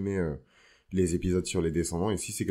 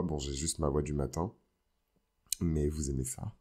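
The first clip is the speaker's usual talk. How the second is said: vocal fry; 2 semitones lower, 5 dB quieter than usual. Real, not acted. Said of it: "vous pouvez l'entendre à ma voix".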